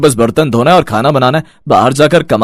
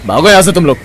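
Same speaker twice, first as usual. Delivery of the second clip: angry dismissal; 4 semitones higher, faster than usual. Acted. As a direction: shoo them away angrily. Landlord evicts the family. (गुस्से में भगाना)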